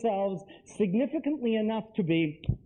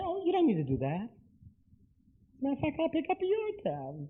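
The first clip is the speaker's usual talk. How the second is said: generous; 5 semitones higher than usual. Shown as a demonstration. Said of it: "you say".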